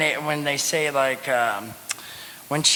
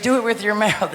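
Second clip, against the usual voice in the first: laughing imitation; 7 semitones higher than usual. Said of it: "then she's like".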